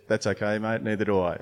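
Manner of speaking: light retold American accent; a hint of a broad American accent. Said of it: "in his broad American accent".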